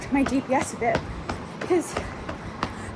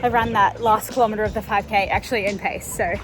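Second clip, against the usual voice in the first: breathless runner, higher and louder; while running; 4 semitones higher, 6 dB louder than usual. Real, not acted. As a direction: talk between strides, catching breath. I'm taking a little break.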